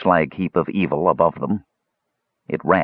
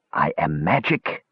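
eerie reply; 3 semitones lower than usual. Acted. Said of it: "came the reply".

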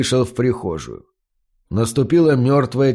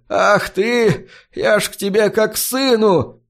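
almost crying; 9 semitones higher than usual. A narrator's reading. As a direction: voice rising high, close to tears. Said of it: "Чуть ли не плакал старик".

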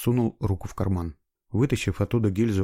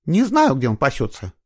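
tense, nervous; 6 semitones higher, 6 dB louder than usual. A narrator's reading. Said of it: "напряжённо и нервно зевнула женщина".

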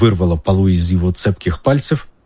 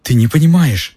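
high, whiny protest; whimpering; 7 semitones higher, 3 dB louder than usual. A narrator's reading. Pettigrew protests to Black, whimpering. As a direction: whimper it, pitched up. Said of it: "захныкал Петтигрю".

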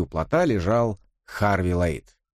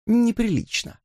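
much higher, cheeky with a laugh; provocative Elisa; 8 semitones higher than usual. Acted. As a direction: shock them on purpose. (дерзкая дама со смешком)

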